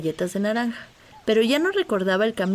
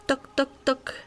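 whispered knocking; 5 semitones higher than usual. A narrator's reading. Knocking at the cave door.

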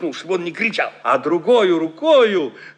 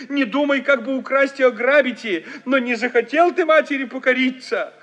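lightly voiced chanting old-style lament; keen it like a folk dirge; mother's lament; 4 semitones higher than usual. Mother laments over her son, a light folk keening. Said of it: "причитывает".

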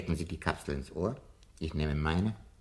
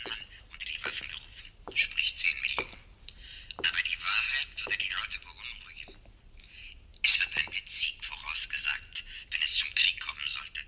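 whisper. Acted. Whispering through the ear capsule.

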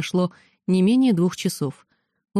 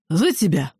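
put-on drunk toast. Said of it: "возвестил Сайер".

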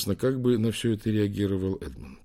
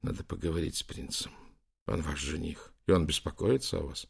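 тихий приглушённый голос; скажи почти шёпотом; 3 semitones lower, 7 dB quieter than usual. Acted. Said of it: "прошептал Лэнгдон". (тихо, шёпотом)

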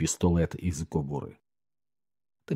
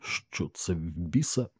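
out of breath; 8 dB quieter, slower than usual. A narrator's reading. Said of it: "важко дихаючи, наче довго біг".

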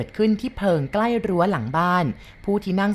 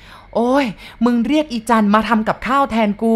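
loud, higher, slow stricken cry; old cook collapsing at the news, wailing; anguished wail; 5 semitones higher, 5 dB louder, slower than usual. Acted. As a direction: wail it as you faint.

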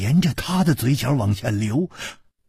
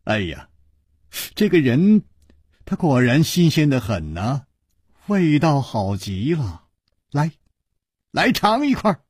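laughing; 2 semitones higher than usual. Acted. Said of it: "楚留香笑着说".

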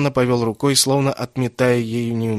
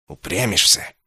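angry gritted mutter. Acted. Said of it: "процедил Инсанна, едва не задохнувшись от злости".

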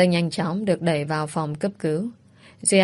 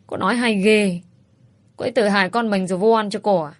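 scornful gossip; 3 semitones higher than usual. Acted. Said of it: "Mấy bà kia thì lại nguýt dài".

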